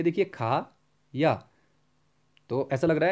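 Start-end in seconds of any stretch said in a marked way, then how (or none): 0.3-1.3 खा and या said apart with a clear pause; खा ... या, split by a pause; pause between words. Shown as a demonstration. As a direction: break खा, then या. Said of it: "अगर हम इनको अलग-अलग कर लेंगे".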